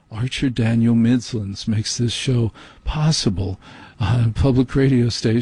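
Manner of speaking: lightly mocking public-radio sponsor read; pretentious public radio announcer. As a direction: parody an underwriting credit, a touch self-important. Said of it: "I hate N P R for its pretense".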